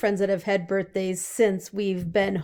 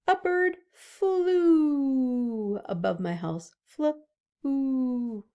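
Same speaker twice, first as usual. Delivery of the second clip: gentle storytime; 4 semitones higher, much slower than usual. Shown as a demonstration. Teacher models the word in a sentence.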